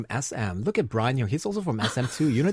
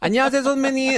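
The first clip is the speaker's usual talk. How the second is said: aloof hip hop junior, louder and higher; snobbish greeting; 12 semitones higher, 5 dB louder, much faster than usual. Retold or imitated. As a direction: greet with cool snobbish detachment. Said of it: "Y G is super hip hop snobbish".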